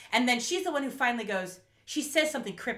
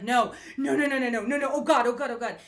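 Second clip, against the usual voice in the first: loud, higher string of panicked words; tumbling mock panic, raised voice; retold panic; 4 semitones higher, 6 dB louder than usual. Host acting Sarah seeing Kira get out, retold panic.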